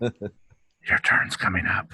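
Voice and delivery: slow, low celestial announcement; voice from the heavens. Acted. Player playing heaven's voice warning another player, slow and low. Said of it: "a voice from the heavens goes".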